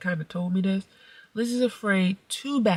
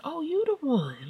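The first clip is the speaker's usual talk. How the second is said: high drawn-out "Oh, you the one" with a falling end; mock sing-song greeting; 9 semitones higher than usual. Mom greets the eye-rolling girl in a slow, high mock-sweet tone. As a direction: sing the line slowly and sweetly, mock friendly. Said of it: "like that".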